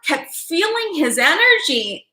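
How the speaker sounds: slow, crying through the words; real tears held back as she speaks; tearful. Real, not acted. Recalling the encounter to her viewers, crying.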